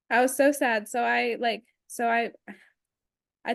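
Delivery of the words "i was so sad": laughing it off. Retold or imitated. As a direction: chuckle through the line. Repeats it laughing.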